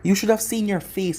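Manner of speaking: mild read shout. A narrator's reading. Naruto taunting Tsunade across the room, mild shout. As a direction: call it out, half-shouting, gleeful. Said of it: "he shouted".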